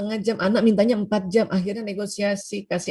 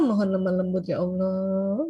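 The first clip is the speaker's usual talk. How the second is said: gentle prayer. Shown as a demonstration. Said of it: "Makanya minta".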